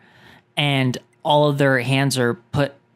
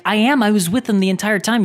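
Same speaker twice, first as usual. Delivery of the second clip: retold upset; 8 semitones higher, 4 dB louder than usual. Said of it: "I started getting really worked up".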